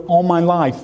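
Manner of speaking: lightly voiced deaf father answering. Deaf father answers from the other room, imitated voice. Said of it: "they sound a little bit funny".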